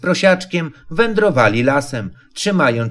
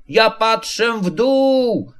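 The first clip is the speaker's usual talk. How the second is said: loud call; 7 semitones higher, much slower than usual. Acted. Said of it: "zawołał Prosiaczek tak głośno".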